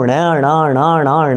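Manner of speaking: ण, ण, ण, ण drilled as a retroflex nasal; retroflex ण sound. Shown as a demonstration. Preacher drills listeners on the retroflex ण sound. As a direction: repeat ण with the tongue curled back. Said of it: "ण मंत्र है वो".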